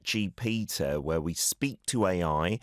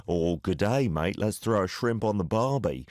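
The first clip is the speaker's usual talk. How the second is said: hammy fake Australian accent. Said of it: "that's a terrible Australian accent".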